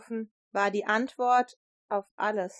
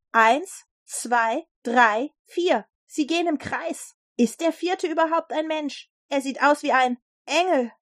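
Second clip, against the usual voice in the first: amazed counting, then rising higher; astonished calling out; 5 semitones higher, 4 dB louder than usual. A narrator's reading. King counts figures in the fire, amazed. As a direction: wonder growing as the voice lifts. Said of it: "aber plötzlich rief er auf".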